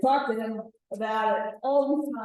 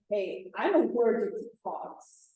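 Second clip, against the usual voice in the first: very direct; 4 dB quieter than usual. Acted. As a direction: state the problem straight out. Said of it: "he was being very direct".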